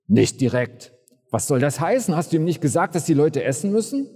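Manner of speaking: "Nicht direkt?" kräftig und ungläubig wiederholt; ungläubig nachhaken. Acted. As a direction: fassungslos zurückfragen. Kollegen hakt ungläubig nach. (Kollegen fragen den Jünger ungläubig aus)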